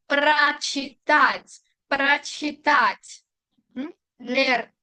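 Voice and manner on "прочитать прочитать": прочитать drawn out syllable by syllable; slow careful pronunciation. Shown as a demonstration. Teacher showing learners how the prefix is pronounced, slow and careful. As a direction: say прочитать very slowly and clearly. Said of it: "la pronuncia así".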